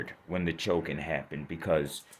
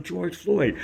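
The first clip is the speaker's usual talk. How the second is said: retold scream; 9 semitones higher than usual. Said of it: "So I started screaming".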